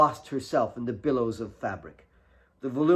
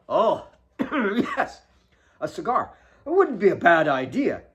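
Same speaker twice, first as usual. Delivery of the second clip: playful father; 6 semitones higher, 7 dB louder than usual. Acted. Father plays along.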